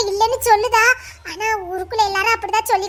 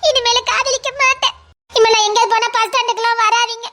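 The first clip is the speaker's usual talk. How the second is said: tearful words as she leaves him; girl crying to her lover as she walks away; crying farewell. Acted. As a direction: sob out the goodbye.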